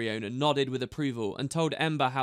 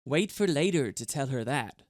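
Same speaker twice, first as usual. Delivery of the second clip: suggesting. A narrator's reading. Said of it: "suggested Cranks".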